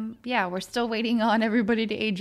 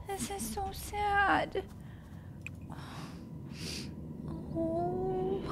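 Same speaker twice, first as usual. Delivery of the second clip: tearful quiet; 9 semitones higher, 11 dB quieter, much slower than usual. Real, not acted. Grieving after death.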